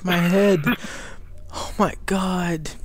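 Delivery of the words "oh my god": whispering in disbelief; whispered. Real, not acted. Stunned after the scare.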